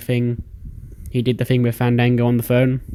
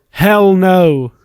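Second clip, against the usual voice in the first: loud and high, a firm hell no; emphatic refusal; 6 semitones higher, 8 dB louder than usual. Retold or imitated. Cedric shouting down the offer, loud refusal. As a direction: throw the refusal out big.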